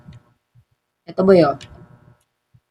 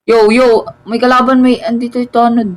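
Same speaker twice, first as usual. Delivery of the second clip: louder, higher warning call; alarmed; 5 semitones higher, 3 dB louder than usual. Real, not acted. Gamer warning teammate an enemy is near, alarmed. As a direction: warn your teammate of the guard.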